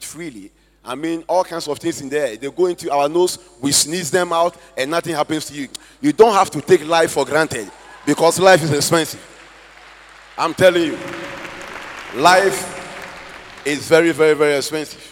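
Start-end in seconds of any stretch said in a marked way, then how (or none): 6.0-15.0 emphatic preaching. Real, not acted. Preacher urging congregation.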